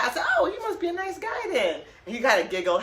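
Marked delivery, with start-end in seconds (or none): 0.4-1.8 sarcastic. Retold or imitated. Sarcastic reply to seatmate.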